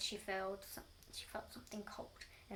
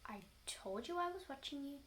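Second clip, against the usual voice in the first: mild cackle; 3 semitones higher than usual. Acted. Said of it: "cackled Missus Twit".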